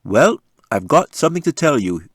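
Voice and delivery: a father teasing big news; announcing. Acted. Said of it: "Dad made the announcement".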